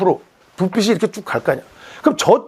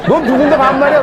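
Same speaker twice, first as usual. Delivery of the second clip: higher, indignant challenge; offended comeback; 6 semitones higher, 4 dB louder than usual. Retold or imitated. Beginner offended by the angler's rudeness, indignant and higher. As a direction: bristle at being talked down to.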